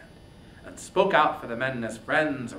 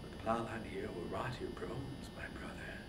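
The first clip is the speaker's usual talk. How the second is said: whispered lament; 12 dB quieter than usual. Acted. Agamemnon laments over his brother.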